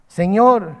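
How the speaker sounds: loud imitated call for help; retold cry. Blind men calling to Jesus, loud retold cry. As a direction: call out "Lord" like a beggar. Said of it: "empezaron a gritar".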